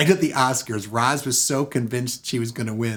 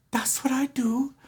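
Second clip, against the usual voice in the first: whisper; 13 semitones higher, 4 dB quieter than usual. Retold or imitated. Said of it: "She goes".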